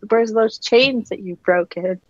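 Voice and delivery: a touch of sass in a pretend challenge; lightly mock-questioning, with mild sass; sassy. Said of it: "if she wants to be really sassy".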